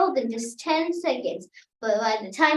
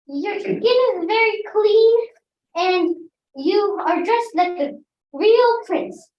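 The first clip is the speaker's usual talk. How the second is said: sarcastic; 5 semitones higher, 4 dB louder than usual. Acted. Princess mocks prince sarcastically.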